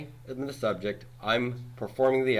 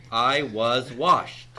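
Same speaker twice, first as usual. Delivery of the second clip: slow, deliberate example read; careful classroom example; slow example sentence; 2 semitones higher, 7 dB louder, much slower than usual. Shown as a demonstration. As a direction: set it out slowly for the class. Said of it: "I would say".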